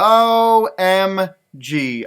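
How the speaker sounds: excited gasp. Real, not acted. Seeing the book's reveal picture.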